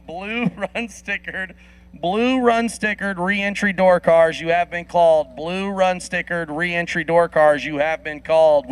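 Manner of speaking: slow, drawn-out PA announcement; announcer call. Acted. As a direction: call them up like a track announcer. Announcer calling cars to lanes.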